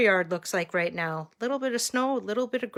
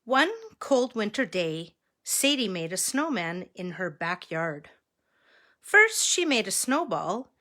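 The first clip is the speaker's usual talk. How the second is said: measured read-aloud with lifted key words; story narration. A narrator's reading. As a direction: read a picture book to children. Reads picture book to children.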